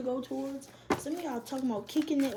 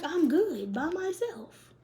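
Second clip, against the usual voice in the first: mock defiant self-talk; 5 semitones higher, 3 dB louder than usual. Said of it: "And be like".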